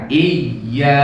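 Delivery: "Iya" with firm pressure on the doubled y; pressed nabr stress. Shown as a demonstration. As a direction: press into the y of "Iya", then hold the a. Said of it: "nadanya datar, ditekan".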